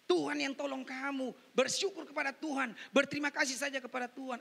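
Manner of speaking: animated pulpit voice; preaching. Retold or imitated. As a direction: retell the exchange emphatically. Preaches, retelling an exchange.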